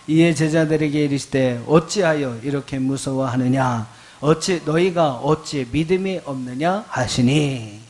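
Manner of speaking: loud, deliberate verse reading; scripture reading aloud. Real, not acted. Pastor reading Mark with congregation, loud scripture reading. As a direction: read the rebuke verse out firmly.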